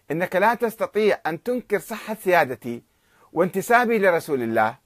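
a moderate rendering of a furious reply; retold angry retort. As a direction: hurl back a proud, angry defiance. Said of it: "احمر وجه السيد الشهرودي غضبا".

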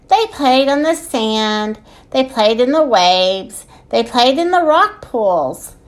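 measured picture-book narration with lilting phrases; story reading. A narrator's reading. Podcast host reading a children's book, storytelling. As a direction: read it aloud to small children.

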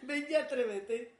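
mock dare. Playful dare while laughing.

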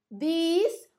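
THESE with a drawn-out "ee"; long E in THESE. Shown as a demonstration. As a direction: stretch the vowel of THESE slowly. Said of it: "com Ezinho".

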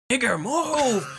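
put-on old racist voice. Old white man in the store, gruffly voiced. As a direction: play the rude old man. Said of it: "it's like".

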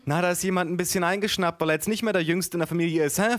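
high, teasing aunt voice; barely hushed aunt's baby talk; whispering aunt, voiced. A narrator's reading. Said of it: "flüsterte meine Tante".

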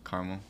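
"Caramel" said as CAR-mul; "Caramel" with an ah, middle vowel dropped; two-syllable pronunciation. Shown as a demonstration. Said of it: "That's how you say it".

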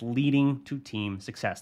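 weight on "leading to team success", each word set apart; punctuated emphasis. Retold or imitated. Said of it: "really punctuated the words".

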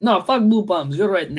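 lightly put-on Russian accent; amateur Russian accent. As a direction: agree in a mock Russian accent. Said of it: "I am doing it in Russian now".

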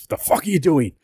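half-joking indignation; pissed Batman. Retold or imitated. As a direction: imitate an irritated hero telling someone off. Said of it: "Batman gets pissed".

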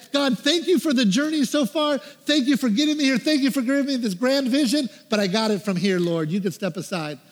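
retold self-important prayer; arrogant dismissal. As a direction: politely dismiss God, full of yourself. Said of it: "I was arrogant enough to tell this".

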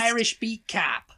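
slow, put-on Boston accent; Boston Irish accent. Shown as a demonstration. Joining the demo, Boston Irish cop accent. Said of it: "You can hear an Irish".

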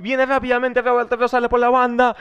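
loud, high, drawn-out amateur commentary; slow commentator imitation climbing in pitch; attempted goal call. Shown as a demonstration. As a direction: build to a high shout on the goal. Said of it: "tengo que decir lo mismo que tú".

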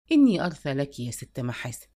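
lightly voiced, gentle pity for a lonely woman; tenderly. A narrator's reading. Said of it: "قال لها بحنان". (بحنان وصوت أخفض)

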